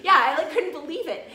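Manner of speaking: real laughter through the words; laughing disbelief. Real, not acted. Laughing as she tells the podcast about the fight. Laughing at her own story.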